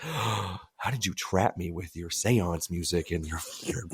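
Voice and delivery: mock accusing. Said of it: "I'm like".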